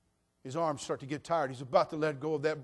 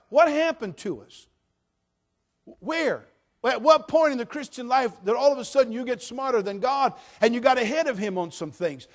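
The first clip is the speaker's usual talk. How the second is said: loud, higher, passionate preacher delivery; full-force preaching; 10 semitones higher, 14 dB louder than usual. Acted. Pastor preaching salvation loudly to the church. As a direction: proclaim it with fire.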